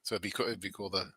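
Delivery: muffled, distant mic sound; like talking down a tube; through a tube. Real, not acted. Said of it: "sounds like I'm talking into a tube from the next room".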